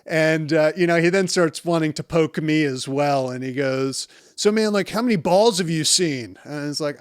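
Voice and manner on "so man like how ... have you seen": lightly voiced cheeky patient, a bit higher; a hint of a sassy guy high on laughing gas, poking fun. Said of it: "a little sassy".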